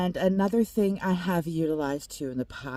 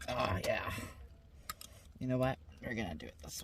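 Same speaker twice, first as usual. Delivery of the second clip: whispering; 8 semitones lower, 10 dB quieter, faster than usual. Real, not acted. Quiet aside while cooking.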